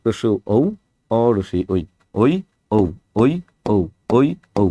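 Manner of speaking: drawn-out, half-sung vowel demo; slow vowel drill for students. Shown as a demonstration. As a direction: stretch each vowel slowly, teacher style. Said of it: "এই ও এর উচ্চারণ করতে দুইটা বর্ণ".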